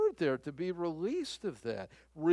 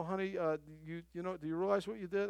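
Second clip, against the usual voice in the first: gentle wife; 4 dB quieter, faster than usual. Retold or imitated. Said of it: "and just say".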